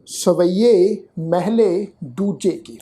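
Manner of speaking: slow, careful scripture reading; slow recitation. Shown as a demonstration. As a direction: read the heading slowly, word by word. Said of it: "ਸਿਰਲੇਖ ਦਾ ਪਾਠ ਹੈ ਜੀ".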